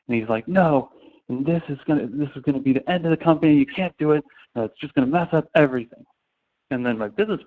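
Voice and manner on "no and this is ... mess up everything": higher, heated, mock-angry protest; retold fuming CEO. CEO warning the founders, mock-angry and higher. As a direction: imitate the boss losing his temper a little. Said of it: "like, fuming".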